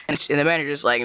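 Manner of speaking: plain reading voice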